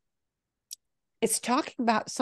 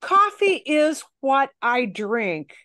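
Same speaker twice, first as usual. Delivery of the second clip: slow example; 5 semitones higher, 3 dB louder than usual. Shown as a demonstration. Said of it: "so you would use que".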